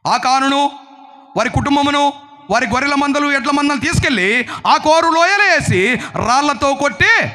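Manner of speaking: insistent list building in intensity; forceful preaching. Real, not acted. Preacher giving God's command to stone Achan, forceful preaching. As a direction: build through the list like a sentence pronounced.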